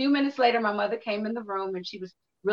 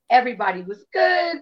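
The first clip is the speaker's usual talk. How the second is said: voice catching; 3 semitones higher, 5 dB louder than usual. Real, not acted. Recalling trauma, crying heard.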